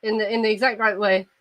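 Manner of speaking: posh British accent with every vowel pronounced; Received Pronunciation, precisely enunciated; Queen's English. Shown as a demonstration. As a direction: articulate each vowel in exact Queen's English. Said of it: "you pronounce all the vowels".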